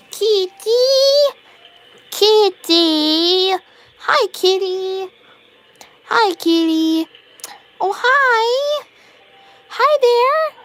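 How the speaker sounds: high, loud sing-song pet talk; calling the cat. Real, not acted. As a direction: coo up high to a cat you adore.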